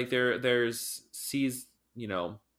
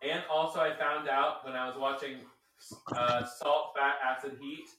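distant, off-mic voice; calling from across the room; far from mic; 4 semitones higher than usual. Real, not acted. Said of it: "that's why I sound far away from you".

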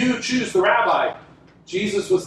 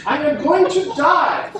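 solemn Jesus; 8 semitones higher, 4 dB louder than usual. Retold or imitated. Jesus voiced telling disciples plainly.

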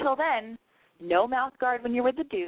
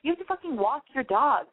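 higher-pitched nagging pep talk; exasperated self-scolding; 7 semitones higher than usual. Acted. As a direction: list the chores in mock exasperation. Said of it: "you're like".

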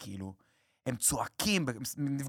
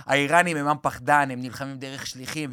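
put-on Persian accent. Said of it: "אני עושה את המבטא".

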